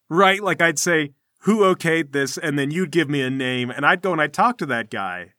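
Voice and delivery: loud, chummy bluster; laughing, pushy nonchalance; fake-jovial guild boss. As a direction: toy with them while sounding friendly. Armsman toys with the newcomers.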